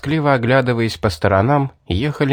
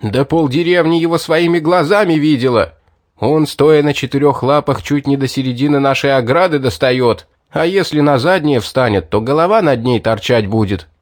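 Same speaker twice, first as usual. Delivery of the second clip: angry; 3 semitones higher, 3 dB louder than usual. Acted. Enraged man describes the demon.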